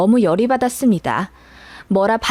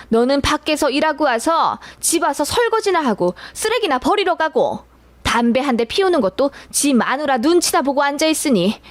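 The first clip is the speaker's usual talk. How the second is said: frustrated scolding; 3 semitones higher than usual. Retold or imitated. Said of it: "답답하다는 듯 가슴을 팡팡 치며".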